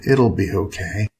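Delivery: soft, slow reassurance; mumbled comfort. Acted. Man comforting crying Ava, soft mumble. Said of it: "I mumbled".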